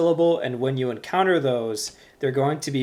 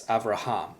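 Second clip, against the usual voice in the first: Avraham stressed on HAM, av-ra-HAM; stress on last syllable. Shown as a demonstration. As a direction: land the accent on the final syllable of Avraham. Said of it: "with the accent it's".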